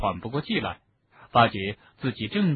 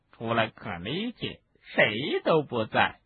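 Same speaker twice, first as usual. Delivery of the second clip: gleeful house-elf; slower than usual. Acted. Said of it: "兴高采烈地说".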